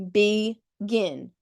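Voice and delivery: "begin" split into "be" and "gin"; syllable by syllable. Shown as a demonstration. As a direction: say "begin" as two separate beats. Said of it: "that's a word that has two syllables".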